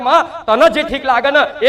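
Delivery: તને stressed, said slowly with a laugh. Retold or imitated. Goddess teaching her son the prayer, slow and laughing. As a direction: draw out તને જે ઠીક લાગે ને slowly, laughing through it. Quoted devotee, second take.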